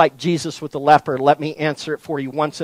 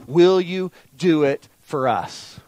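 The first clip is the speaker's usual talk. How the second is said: doubting question; 5 dB quieter, slower than usual. Retold or imitated.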